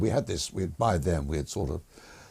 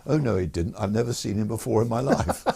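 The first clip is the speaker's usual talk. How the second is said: mild Prince Charles; 3 semitones higher, 3 dB louder than usual. Retold or imitated. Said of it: "up piped Prince Charles".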